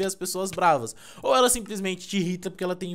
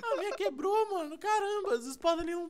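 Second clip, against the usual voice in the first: squeaky whining; 13 semitones higher than usual. Pretend. Playing samurais with his friend, a much higher whine. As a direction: whine about the broken sword.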